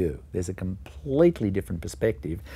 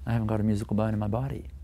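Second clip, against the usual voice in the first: fast, firm mock certainty; imitating conviction; faster than usual. Teacher mimicking a pupil who claims no musical bone, fast and sure. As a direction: parrot the doubter's firm claim. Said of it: "they say it with such conviction".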